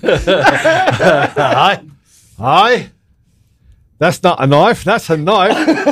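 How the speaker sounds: playful put-on Australian accent. Second attempt, quoting Crocodile Dundee, mock Australian accent. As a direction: quote it in a hammed-up Australian accent. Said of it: "I'm gonna do the Australian accent again".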